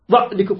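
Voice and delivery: "ظعنكم" with an abrupt stop on ع; wrong hard Ayn. Shown as a demonstration. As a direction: choke off the ع of "ظعنكم" before the ن. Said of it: "خطأ".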